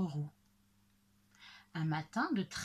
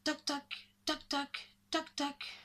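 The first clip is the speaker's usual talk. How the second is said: high, staccato knocking sounds; woodpecker knocks; 5 semitones higher, 4 dB quieter than usual. Acted. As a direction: tap out crisp pairs of knocks. Narrator imitates woodpecker knocking. (petits coups de bec aigus)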